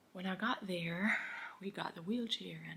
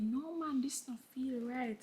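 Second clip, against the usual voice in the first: alarmed; 5 semitones higher, slower than usual. Retold or imitated. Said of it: "And I said".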